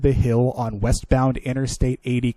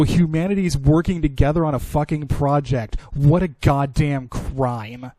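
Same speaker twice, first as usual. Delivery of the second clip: sarcastic. Real, not acted. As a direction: drag it out mockingly. Sarcastic remark on cooperation.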